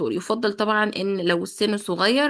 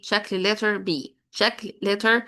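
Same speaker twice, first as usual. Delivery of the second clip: slow teaching repeat; much slower than usual. Shown as a demonstration. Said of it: "لازم يبقى عارف".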